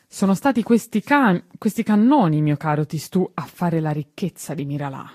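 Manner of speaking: put-on shouted proudly to the boy; shouting. A narrator's reading. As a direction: call out over factory noise. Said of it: "gridò il signor Bombardino".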